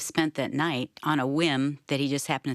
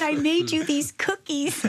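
high; 13 semitones higher than usual. Retold or imitated. Retelling her cookie offer.

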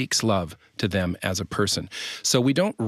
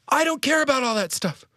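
very high mock-wife protest; imitating upset wife. Husband acting out his wife rejecting his housework, high mock outburst.

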